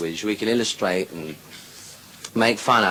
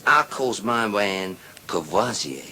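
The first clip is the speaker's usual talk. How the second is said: woman's brag voice; 2 semitones lower, slower than usual. Acted. Third woman names her husband.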